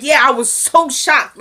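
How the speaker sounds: high, drawn-out retold shock; mock shock. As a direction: stretch it out like scandalized gossip. Retells a woman's shocked reaction.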